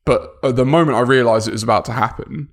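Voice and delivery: ordinary talk, nothing marked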